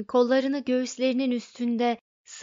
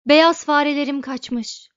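loud, higher-pitched cry of alarm; raised voice, sudden alarm; alarmed outburst; 4 semitones higher, 10 dB louder than usual. A narrator's reading. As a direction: burst in with urgent news, loudly. Trillian bursts in over escaped mice.

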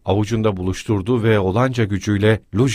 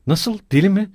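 high, raised outraged questions; indignant shout; 8 semitones higher than usual. A narrator's reading. Katerina shouting back at being called mad. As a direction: throw the insult back, pitch jumping up. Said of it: "diye bağırdı".

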